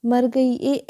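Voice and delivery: hammed-up ouch, as if the foot just got pulled; mock cry of pain. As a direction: cry out as the leg is yanked. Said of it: "ऐसा बोलकर जोर से चिल्ला गई".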